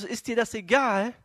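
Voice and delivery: indignant reproach. Acted. Martha complaining to Jesus about her sister, indignant. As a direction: throw it out as an acted complaint.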